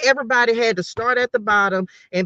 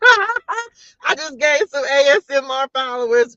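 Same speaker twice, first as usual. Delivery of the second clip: high, slow, thrilled announcement; delighted; 4 semitones higher, 3 dB louder than usual. Real, not acted. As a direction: savor the news with glee. Excited about ASMR followers.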